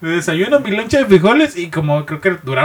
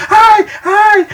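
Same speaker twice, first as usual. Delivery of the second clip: very high, louder mock wailing; mock girlish shriek; 4 dB louder than usual. Detainee screams as police raise a hand, in a high mock shriek. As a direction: shriek like a panicked girl. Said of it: "Gritaba acá como niña loca".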